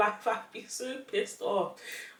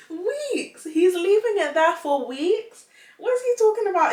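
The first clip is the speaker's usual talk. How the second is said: louder, higher disbelief; incredulous outrage; 10 semitones higher, 8 dB louder than usual. Real, not acted. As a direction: demand an answer in shock.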